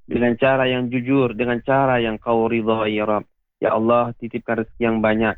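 steady, devout recitation of a closing prayer. Acted. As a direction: recite it like a preacher praying for the congregation. Leads closing supplication. (doa penutup yang khusyuk)

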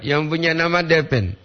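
ordinary talk, nothing marked

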